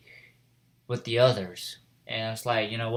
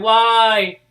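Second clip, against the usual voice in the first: high, loud, stretched-out cry; retold wail; 10 semitones higher, 11 dB louder than usual. Retelling the boy's reaction, high loud wail. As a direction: wail it like an anime character in despair. Retold character wails why.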